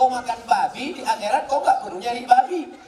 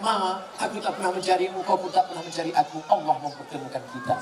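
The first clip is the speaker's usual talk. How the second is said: tender words to wife; 3 semitones lower, faster than usual. Pretend. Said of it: "Pulang dari sini katakan".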